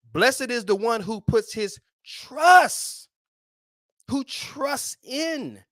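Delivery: near-singing the verse, voice catching; getting excited. Real, not acted. Preacher carried away reading the verse, sung and excited. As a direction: let the verse swell into a sung cry. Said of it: "now I'm getting excited".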